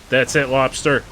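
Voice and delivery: loud and pumped up; excited. Real, not acted. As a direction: psych up for the fight. Gearing up to fight lobsters.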